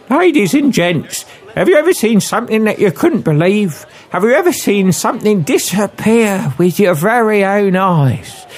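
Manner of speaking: high-pitched Cockney stage patter; young Cockney woman. Acted. Cockney lady opens her vanishing act, high theatrical Cockney. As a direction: work the crowd as a Cockney showwoman. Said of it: "With a young female Cockney accent".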